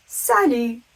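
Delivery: French "salut" with no T at the end; emphatic teacherly "salut", T dropped; silent final T. Shown as a demonstration. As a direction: model "salut" clearly, ending on the vowel. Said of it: "T on the end is completely silent".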